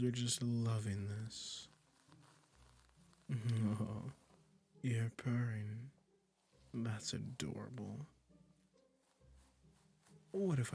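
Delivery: slow, drawn-out coaxing with lingering pauses; lightly hammed-up sweet, condescending captor; doting, possessive magician. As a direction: coo smugly to your new pet kitty. Magician soothing listener turned cat.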